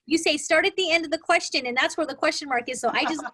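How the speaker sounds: put-on high, loud, eager little boy explaining; a ten-year-old proudly sharing his trick; kid nephew voice. Aunt imitating her nephew, high and loud kid voice. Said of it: "He says".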